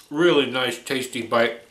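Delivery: talking through a mouthful; mouth full. Real, not acted. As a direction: speak around a bite of food. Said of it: "I wanna talk with my mouth full".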